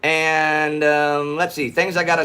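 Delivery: high, hammed-up Texas showman intro; big Texas twang, announcer style; put-on Texas drawl. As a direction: open the show like a Texan pitchman. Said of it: "not gonna be talking like this".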